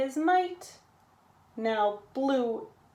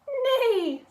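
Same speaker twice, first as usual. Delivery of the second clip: high neigh falling away; whinny like a horse; a storyteller's neighing horse; 12 semitones higher, 4 dB louder than usual. A narrator's reading. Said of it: "said a horse".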